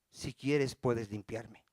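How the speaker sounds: low, hushed plea; humble plea. Acted. Preacher models what to say to the Lord, humble plea.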